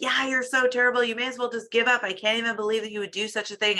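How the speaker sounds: fast, lightly hammed-up scolding, not truly yelling; mock scolding. Coach mimics the voice that scolds a friend, mild fast mock scolding. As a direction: play the harsh inner critic, briskly and half in jest. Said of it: "and yell at her".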